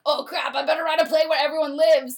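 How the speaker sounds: panicked Shakespeare. Retold or imitated. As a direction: blurt it out, then calm down.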